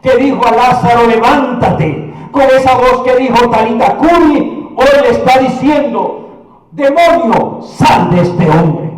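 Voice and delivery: emphatic voice of divine authority; ringing sermon build-up; commanding preaching. Acted. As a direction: proclaim each command with force.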